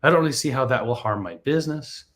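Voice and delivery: brisk radio announcer read. Acted. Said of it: "I'm gonna use my radio voice for this".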